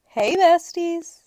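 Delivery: slow, sugary greeting; butter up the shop clerks; drawn-out buttering-up hello; sweet-talking friend. Retold or imitated. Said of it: "we go to the gift shop and we say".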